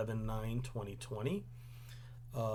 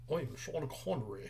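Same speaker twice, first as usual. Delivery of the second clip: softly attempted Scottish accent; tentative, hushed mock Scottish accent; Sean Connery; 8 dB quieter than usual. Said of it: "just think of Sean Connery".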